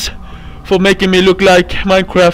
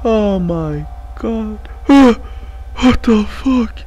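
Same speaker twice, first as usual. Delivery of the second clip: slow, hushed disbelief after the scare; stunned and shaken; 3 dB quieter, much slower than usual. Real, not acted. Player recovering after being caught, slow shaken whisper. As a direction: let it out slowly, still in shock.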